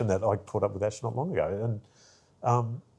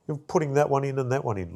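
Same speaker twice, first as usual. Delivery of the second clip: high, decisive instructions; the boss deciding for you; bossy; 7 semitones higher than usual. Retold or imitated. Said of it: "So she goes".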